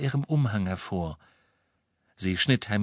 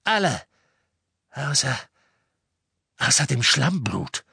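sharp command breaking into deliberate pauses; pointed villainess order; 3 semitones higher than usual. A narrator's reading. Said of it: "sagte Bellatrix scharf".

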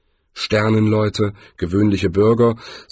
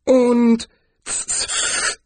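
very high, eager helper's voice; high-pitched helpful offer; helpful interjection. A narrator's reading. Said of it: "warf Zweiblum hilfsbereit ein".

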